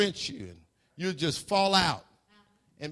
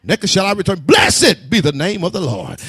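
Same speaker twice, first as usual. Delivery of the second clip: Job's praise; 11 dB louder than usual. Retold or imitated. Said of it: "we'd be like Job".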